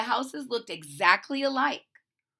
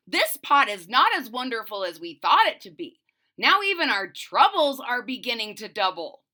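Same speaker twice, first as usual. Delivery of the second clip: louder, exasperated husband; angry cry; 6 dB louder than usual. Acted. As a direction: complain hotly about the pot. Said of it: "Mister Hawk Talk cried angrily".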